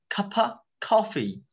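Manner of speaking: cup of coffee with of as uh, slow; slow schwa model. Shown as a demonstration. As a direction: teach cup of coffee slowly. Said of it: "আরেকটা যদি নিতে যাই". (ধীরে শুয়া দিয়ে)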